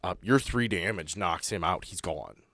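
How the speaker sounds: ordinary talk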